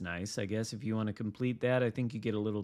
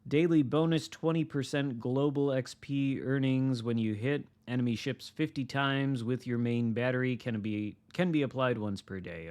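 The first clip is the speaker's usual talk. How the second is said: upbeat announcer read; news read; 2 semitones higher than usual. Acted. Reading patch notes aloud.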